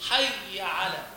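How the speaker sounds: حي على said plainly with no added madd; correct short vowel. Shown as a demonstration. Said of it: "هكذا". (نطق صحيح بلا مد)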